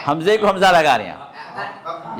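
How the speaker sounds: slow repeat through laughter; amused repeat. Real, not acted. Teacher laughing at a student's mistake. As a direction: say it again slowly, chuckling.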